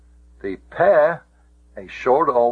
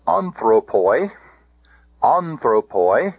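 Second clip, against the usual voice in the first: "anthropoi" with AN stressed, poi short; accent "anthropoi" on its opening AN; stress on first syllable. Shown as a demonstration. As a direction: say "anthropoi" as AN-thro-poi, rising at the end. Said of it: "antepenult now".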